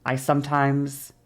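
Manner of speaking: slow, with drawn-out gaps; long pauses. Shown as a demonstration. Teacher demonstrating own changing speed, slow with pauses. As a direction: stretch it out and pause mid-sentence. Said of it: "take long pauses when I'm speaking".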